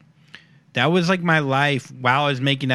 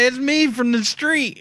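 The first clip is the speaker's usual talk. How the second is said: put-on slow drunk yell; 12 semitones higher, slower than usual. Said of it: "If you keep yelling at him".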